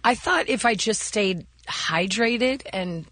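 real raspiness from a failing voice; raspy voice. Real, not acted. Host explains her throat remedy to co-hosts, raspy. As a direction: explain it with a hoarse rasp. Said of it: "raspiness that you have in your voice right now".

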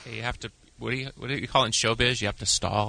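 winded after singing; out of breath. Real, not acted. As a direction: catch his breath while talking. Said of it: "let me catch, catch my breath".

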